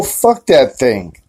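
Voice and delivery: slow, low switch into a dark voice; a hint of a menacing alter; sudden sinister turn. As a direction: drop the sweetness and spit it out slowly. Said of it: "I'll be like".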